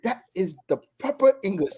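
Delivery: high-pitched mock-proper Welsh accent; funny Welsh accent. Welsh girl corrects her new friend's English, funny Welsh accent. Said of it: "the way she said it was so funny".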